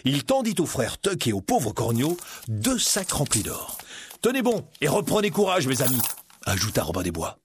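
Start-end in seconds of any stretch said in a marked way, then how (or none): 4.2-6.0 encouraging hero. Acted. Hero rallies his friends.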